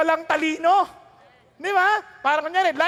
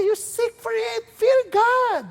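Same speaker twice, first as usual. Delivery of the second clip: higher, booming call to fear God; 6 semitones higher, slower than usual. Acted. Preacher voicing God's command, rising to a shout. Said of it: "Sabi niya".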